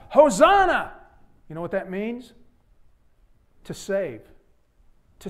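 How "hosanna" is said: loud, high ecstatic shout; crying out Hosanna. Acted. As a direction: cry it out like a jubilant crowd. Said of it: "they cried out".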